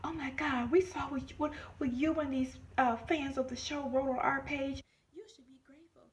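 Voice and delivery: high, partly whispered snooty voice; rude manager. Retold or imitated. Imitating the rude new manager, high and snooty. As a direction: mimic the rude manager talking down. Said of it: "She was rude and nasty".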